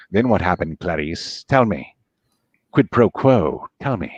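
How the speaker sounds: low, slow menacing psychiatrist voice; a low, coaxing Lecter prying for the truth; Hannibal Lecter. Acted. Playing Lecter to Clarice, low and coaxing.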